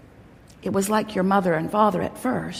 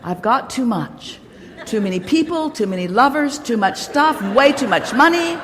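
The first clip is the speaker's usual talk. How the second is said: mock overwhelmed excitement; 4 semitones higher than usual. Pretend overwhelmed receiver.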